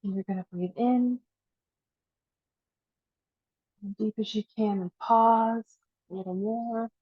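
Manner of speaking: unhurried guide with long pauses for breath; guided breathing meditation. Acted. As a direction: coax each inhale a little further, then release.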